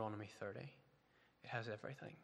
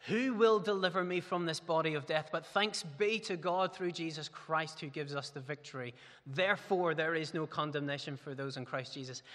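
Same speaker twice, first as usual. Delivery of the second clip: crying out; 3 semitones higher, 4 dB louder than usual. Retold or imitated. Paul cries out for deliverance from sin, anguished. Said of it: "Paul ... cries out from within himself".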